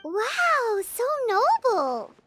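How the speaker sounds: slow, gushing praise; drawn out and impressed; admiring. Acted. Paimon praising Emily's view of perfume: admiring, drawn out.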